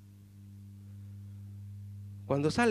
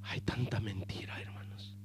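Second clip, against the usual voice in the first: susurro grave y mucho más bajo; 14 semitones lower, 16 dB quieter than usual. Acted. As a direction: dilo en un susurro, como un secreto triste. Preacher drops to whisper. (susurro confidencial a los hermanos)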